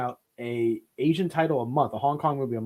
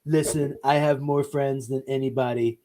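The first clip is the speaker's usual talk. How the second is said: terrible Obama; 3 semitones lower than usual. Acted. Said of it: "I can do Trump or Obama".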